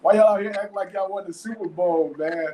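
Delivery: mildly heated mock scolding, rising in pitch; re-enacted exasperation, a touch indignant; retold irritation. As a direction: chew them out for over-celebrating, half in jest. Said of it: "I was kinda hot with you".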